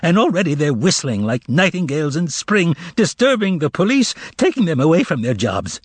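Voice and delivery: high mocking complaint; indignant harangue. Korovyov haranguing the shoppers, high and indignant. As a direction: stir the crowd against him.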